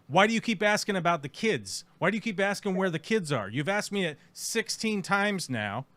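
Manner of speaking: fed-up demand. Retold or imitated. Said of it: "That's what you would say".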